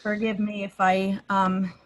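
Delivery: talking with a numb lip after dental work. Real, not acted. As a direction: speak around a numb, dentist-numbed lip. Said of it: "my lip is still numb".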